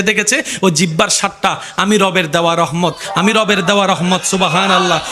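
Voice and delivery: sermon cadence with a repeated refrain; insistent, driving religious address; rhythmic preaching. Acted. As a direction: pile up each line in a steady preacher's rhythm. Preaches God's words in refrain.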